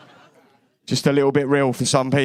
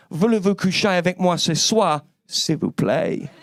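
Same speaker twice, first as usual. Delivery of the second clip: mock French. Shown as a demonstration. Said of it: "I can now say".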